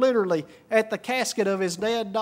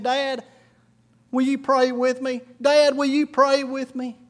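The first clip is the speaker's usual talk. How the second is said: put-on raised pitch, earnest child's plea; pleading boy; 4 semitones higher than usual. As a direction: gently plead as a young son, voice lifted. Little boy pleads with father.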